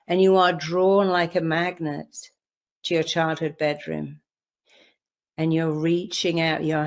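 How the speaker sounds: calm, measured guided visualization voice. Acted. Coach guiding the audience back to their childhood home, calm guided visualization. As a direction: lead the listener gently into a memory.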